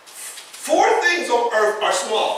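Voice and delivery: slow, measured reading of the verse; scripture reading. Acted. Preacher reads Proverbs to the church, slow and measured. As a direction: read it out deliberately.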